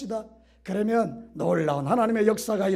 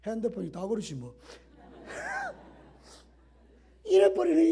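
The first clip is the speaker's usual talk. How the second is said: dismissive brush-off. Retold or imitated. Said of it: "이 경상도 여자들 이거 회개".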